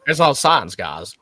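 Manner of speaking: mock bad Southern accent, dropping on the last word; terrible Southern accent. Echoing a friend's mockery of an actor, bad Southern accent. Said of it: "that is a terrible Southern accent".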